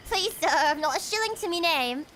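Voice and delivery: lightly put-on British urchin accent. Chatting about accents with the stream, hammed-up British accent. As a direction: plead like a poor British waif, mock-earnest.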